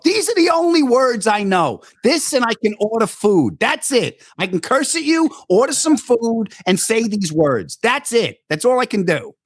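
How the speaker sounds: high, slow, rising panic; panicked admission. Retold or imitated. To Patrice, admitting he knows no Italian, panicked and high. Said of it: "I go".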